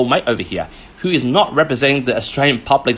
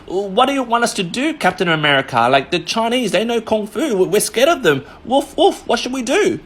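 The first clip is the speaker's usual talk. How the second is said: much higher, whiny mock-frightened plea; mock scared government; 8 semitones higher than usual. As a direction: play a timid ally begging for orders, pitched way up. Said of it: "Australian government scratching their head and go".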